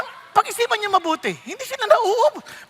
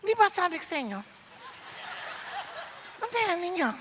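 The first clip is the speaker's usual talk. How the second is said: much softer, scolding under her breath; hushed scolding; 13 dB quieter than usual. Retold or imitated. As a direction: scold the helpers quietly so the guest won't hear. Hostess hissing at helpers. (pabulong na pagalit)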